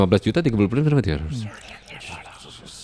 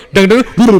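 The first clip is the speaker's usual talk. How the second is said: rimshot sound; 7 semitones higher, 8 dB louder, slower than usual. Shown as a demonstration. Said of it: "jokes tuh kayak gitu".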